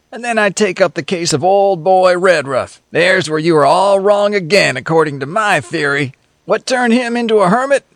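lightly voiced sardonic passenger; a hint of a cynical tramp; cynical drifter. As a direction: needle the others with a sly grin.

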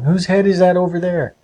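lightly acted cry of surprise. A narrator's reading. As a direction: ask it in mild alarm, pitch lifted. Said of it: "cried John".

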